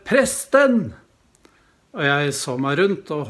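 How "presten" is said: high, loud call across a crowd; shouting out. Retold or imitated. Young man shouting for the priest in a busy mall, loud call. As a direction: call out to get the priest's attention. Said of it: "jeg hørte en ung manns stemme rope".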